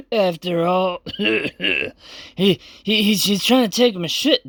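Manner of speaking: put-on a drunk samurai complaining about his lost sword. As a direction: ramble like a sloppy drunk. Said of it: "clearly this guy's absolutely drunk".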